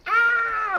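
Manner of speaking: high shrill yelp; short startled scream. Acted. Scream as soldiers approach.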